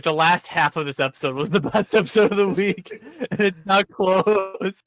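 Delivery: amused, laughter breaking into the words; laughing through it. Real, not acted. Co-host revising the best episode of the week, laughing. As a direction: laugh while insisting, drawing out the end. Host cracks up while judging.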